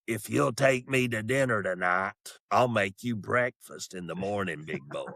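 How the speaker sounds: lightly voiced old smoker, sinking at the end; old woman smoker. Old woman propositioning her date over coffee, lightly voiced smoker. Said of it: "I can't do her voice".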